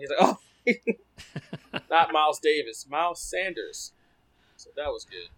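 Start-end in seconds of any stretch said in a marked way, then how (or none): 0.2-3.9 correcting himself through laughter; laughing correction. Retold or imitated. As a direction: laugh while fixing the name. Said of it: "Even he was laughing".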